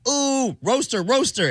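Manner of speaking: high, swooping "ooh" taunt; imitated child hype. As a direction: mimic a kid egging on a roast. Imitating youngest hyping a roast.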